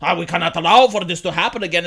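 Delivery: lightly voiced fake-concerned reporter; mock the pundits' pious concern; a hint of a preachy journalist. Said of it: "acting all concerned and they're like".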